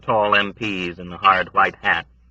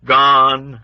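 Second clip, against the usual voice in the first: high, louder mournful word; mournful old woman; 6 semitones higher, 7 dB louder than usual. A narrator's reading. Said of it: "The old woman's tone had not changed".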